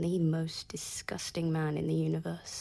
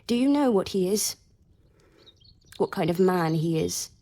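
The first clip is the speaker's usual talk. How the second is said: louder, pressing question; rising bitter demand; bitter challenge; 5 dB louder than usual. Acted. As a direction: push her to admit she doesn't know. Bitter challenge about the man.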